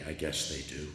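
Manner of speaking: a shy, hesitant answer in a soft voice; quietly admitting it, shy; shy reply. Retold or imitated. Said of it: "sort of shyly".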